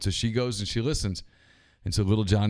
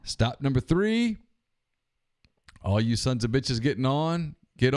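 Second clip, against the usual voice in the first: conductor call. Retold or imitated. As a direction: drag out the stop call. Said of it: "pushes it down".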